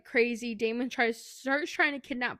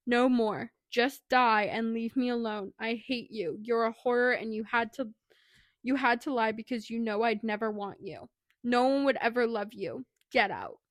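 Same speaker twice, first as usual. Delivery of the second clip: firm, louder mock outburst; retold freak-out; 5 dB louder than usual. Girl rejecting the man her dad exposed, retold freak-out. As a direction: imitate an upset rejection with punched-out opening words. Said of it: "starts freaking out".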